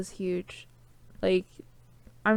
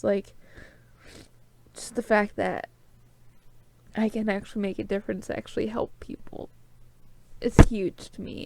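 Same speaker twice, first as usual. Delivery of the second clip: tearful, speaking while crying. A speaker talking to her listeners, crying while speaking. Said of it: "And I'm crying again".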